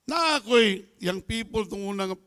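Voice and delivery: usual speaking voice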